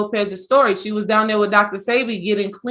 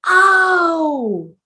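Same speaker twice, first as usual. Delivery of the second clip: high, crying "Oh"; a crying "Oh" of overwhelmed relief; 6 semitones higher than usual. Retold or imitated. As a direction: let it break out like a sob of awe. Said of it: "I was like".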